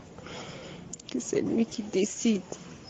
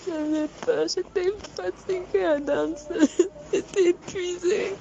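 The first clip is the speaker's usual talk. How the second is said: tearful; 6 semitones higher than usual. Real, not acted. Recalling fear, crying.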